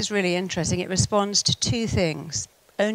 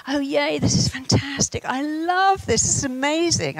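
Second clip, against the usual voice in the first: higher, bright mock enthusiasm on a ride; faked delight; 7 semitones higher than usual. On a scary ride, faking joy to calm her daughter, mock-delighted. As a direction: pretend to love every second of it. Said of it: "I, I really didn't".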